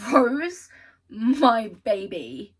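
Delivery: loud fangirl gushing. Real, not acted. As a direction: squeal over a favourite character. Gushing over a character.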